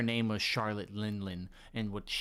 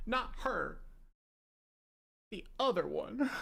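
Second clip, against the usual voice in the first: put-on raised, pushed-up voice of a mother disgusted by her baby; disgusted giant mother; 11 semitones higher than usual. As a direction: spit out the lines as a scornful giantess.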